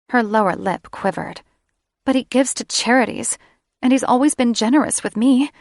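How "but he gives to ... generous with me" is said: defending her grandfather, pitched up and pleading; a higher, pleading woman's voice; hurt young woman, higher. Acted. Sarah defends her grandfather to her lover, pleading higher.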